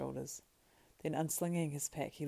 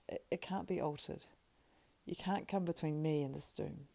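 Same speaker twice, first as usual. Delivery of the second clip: lightly voiced remorseful Frodo; 2 semitones higher than usual. Frodo begs Sam's forgiveness, understated remorse. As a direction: plead for forgiveness, then grow resigned.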